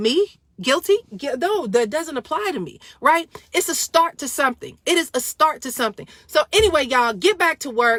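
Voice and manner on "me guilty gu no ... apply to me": mock incredulous, baffled, can't-believe-it disbelief. Retelling how Chauvin looked around in court, imitating Chauvin's disbelief. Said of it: "he was just looking around like".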